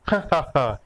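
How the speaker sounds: giggling laugh. Acted. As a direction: burst out in a peal of laughter. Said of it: "खिलखिलाकर हंस पड़ी मसाबा".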